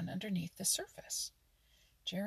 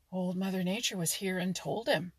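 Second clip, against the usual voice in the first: a touch of gruffness, louder; gruff; 6 dB louder than usual. Acted. Old frog rebukes the mink, lightly gruff. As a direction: answer curtly, an old grump. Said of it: "said Grandfather Frog gruffly".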